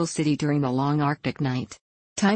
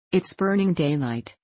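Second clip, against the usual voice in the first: a mild cry of happy recognition; glad cry. Acted. Virgin greets Burning Daylight at the door with a mild glad cry. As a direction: call his name out, lightly pleased. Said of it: "the Virgin cried".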